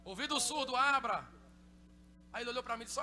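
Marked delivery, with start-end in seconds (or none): 0.1-1.2 loud order to the ear; commanding prayer. Retold or imitated. Preacher commands the deaf ear to open, loud. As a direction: declare it with authority.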